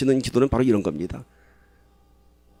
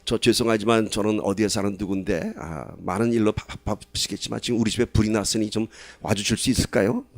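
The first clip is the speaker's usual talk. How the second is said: overly polite; 4 semitones lower, 4 dB quieter than usual. Retold or imitated. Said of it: "격식 갖춰서".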